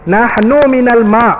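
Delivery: Nahnu minal ma' very slow, stressing minal; Arabic quote. Shown as a demonstration. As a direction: recite Nahnu minal ma' word by word, with weight. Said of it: "Nabi pun kata".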